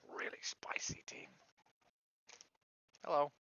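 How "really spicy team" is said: whispered aside, no voice; whispering. Real, not acted. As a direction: breathe it as a secret whisper. Whispers about food aside.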